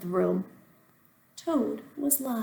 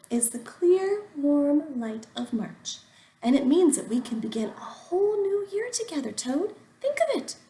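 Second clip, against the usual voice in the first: excited Frog; 6 semitones higher, 4 dB louder than usual. Acted. Frog enthuses about spring.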